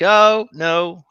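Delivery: high, loud mock-sweet voice imitating the dog sitter. Imitating the dog sitter turning him down, high and loud. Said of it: "And she's like".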